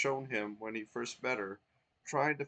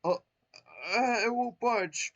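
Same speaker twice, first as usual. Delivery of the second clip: higher, louder strained voice; helpless sigh; 11 semitones higher, 8 dB louder, much slower than usual. Acted. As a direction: strain and give up. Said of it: "Twink sighed helplessly".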